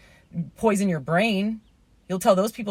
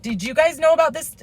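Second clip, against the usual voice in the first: high, loud call to the whole complex; 9 semitones higher, 5 dB louder than usual. Retold or imitated. Neighbour rallying passers-by and onlookers, loud high call. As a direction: shout it up at the apartment windows. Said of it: "calling these people out".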